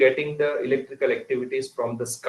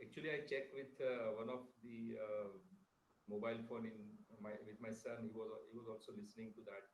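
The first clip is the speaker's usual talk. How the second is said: faint, distant microphone; barely audible; faster than usual. Real, not acted. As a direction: voice fading far away. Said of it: "Sir, voice is very low".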